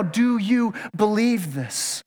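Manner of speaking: slow, each word set apart; slow, searching question. Shown as a demonstration. Preacher asking the church right now, slowly and searchingly. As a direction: press the question home gently. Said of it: "But right now".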